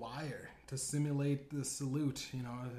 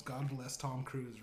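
put-on a light, slow Biden accent, a bit softer; 4 dB quieter, slower than usual. Biden answers the room in a mild Biden accent. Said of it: "responds in the Biden accent".

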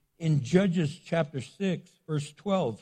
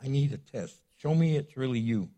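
lower, softer, anxious pleading; freaking out; 5 semitones lower, 5 dB quieter than usual. Retold or imitated. Frightened Gideon begging God for proof, low and anxious. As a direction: plead nervously with the Lord. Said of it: "he's kind of freaking out".

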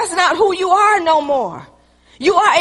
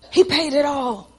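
sincere; 3 semitones lower, 3 dB quieter than usual. Real, not acted.

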